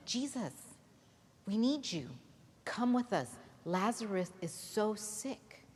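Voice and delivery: a friend pleading for a sick brother; urgent plea. Acted. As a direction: beg him to come quickly.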